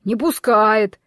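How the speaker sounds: glum horse admitting defeat; a touch of despondency; dejected horse. A narrator's reading. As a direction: answer with drooping spirits. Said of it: "понуро ответил Белояр".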